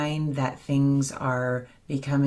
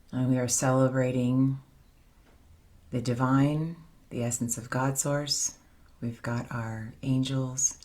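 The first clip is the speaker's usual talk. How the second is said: unhurried, slightly softened meditation voice; guided meditation; 3 dB quieter than usual. Acted. Leader guiding the circle back into their bodies with breath, guided meditation. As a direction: guide them into the breath, leaving long pauses.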